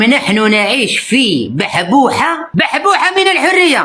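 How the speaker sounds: very slow, drawn-out mocking; mocking quote. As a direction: stretch out بحبوحة with a mocking rise. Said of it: "قال لكم".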